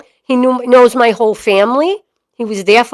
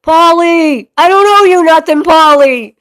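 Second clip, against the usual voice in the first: higher-pitched put-on daddy voice; daddy impression; 6 semitones higher, 4 dB louder than usual. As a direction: call it out as your daddy would, pitched up. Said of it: "make me look like my daddy".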